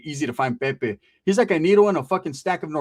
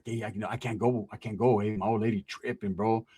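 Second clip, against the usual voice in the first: reluctant excuse; 6 semitones lower, 7 dB quieter than usual. Retold or imitated. Cousin mumbles excuses not to go.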